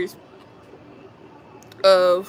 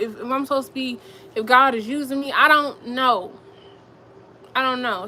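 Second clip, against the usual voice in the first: close to tears; 6 semitones higher than usual. Real, not acted. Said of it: "make me wanna cry a little bit".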